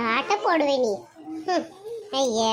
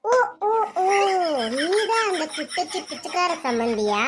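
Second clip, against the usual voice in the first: mocking taunt; 4 semitones higher than usual. Rival in-law sneering at the poor guest, mocking laugh. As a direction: jeer at the guest as if delighted to spot her.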